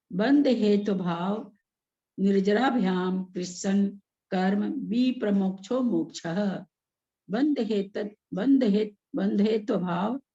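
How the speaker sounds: slow, measured Sanskrit recitation; sutra recitation. Shown as a demonstration. Teacher reading the sutra to a class, measured recitation. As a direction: recite word by word for students to follow.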